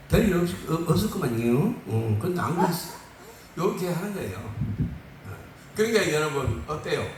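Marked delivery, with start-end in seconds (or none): 0.1-2.9 easygoing Chungcheong dialect demo. Acted. Preacher showing the Chungcheong version for laughs, Chungcheong dialect. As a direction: put on a Chungcheong accent. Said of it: "그 충청도는 안 질려".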